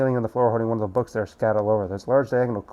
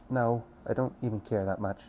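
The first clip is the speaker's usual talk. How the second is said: soft, low, tearful voice; 3 semitones lower, 10 dB quieter than usual. Acted. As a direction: speak quietly through tears. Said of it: "Suki sobs again".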